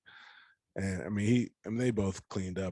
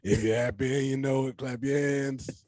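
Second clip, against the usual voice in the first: gravelly voice; 4 semitones higher, 3 dB louder than usual. Retold or imitated. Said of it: "raggedy smoke, fit smoke cigarette voice".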